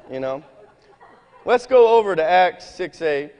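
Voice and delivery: ordinary delivery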